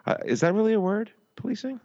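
high disbelieving question; incredulous. Real, not acted. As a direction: squeak up in doubt. Incredulous question about the word.

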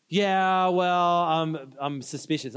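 drawn-out, reluctant admission; awkward hesitation. Acted. Wary tourist explaining himself to a vendor, awkward hesitation.

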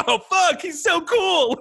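high, starstruck gush; awestruck fan. Retold or imitated. Fan gushing about the legendary hero, awestruck. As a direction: swoon over the hero's coolness.

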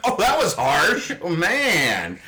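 laughing through it, slowed; amused wince at a harsh joke. Real, not acted. Host laughing at his co-host's harsh joke, laughing. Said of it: "how not funny it is".

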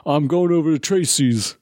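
put-on Black American accent; imitated Black American accent. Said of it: "'Cause I did a black voice".

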